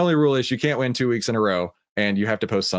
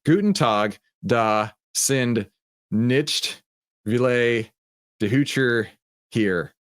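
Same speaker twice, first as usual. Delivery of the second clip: put-on German read in a Texan accent; much slower than usual. Host reading a German chat message aloud, mock Texan accent. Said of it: "read it in my Texan accent".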